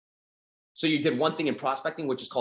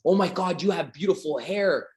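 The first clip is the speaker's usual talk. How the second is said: higher, slower over-the-top gush; gushing compliment; 4 semitones higher than usual. Pretend. Seller praising a girl's hair, gushing. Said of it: "and you're like".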